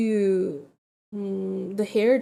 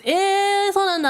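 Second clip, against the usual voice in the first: much higher, astonished Japanese question; surprised; 10 semitones higher, 4 dB louder than usual. Retold or imitated. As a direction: imitate a startled hairdresser. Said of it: "She goes".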